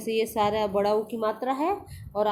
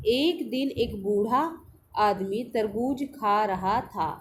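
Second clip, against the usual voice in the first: slow reading aloud; slower than usual. Shown as a demonstration. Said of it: "चलिए पढ़ना शुरू करते हैं".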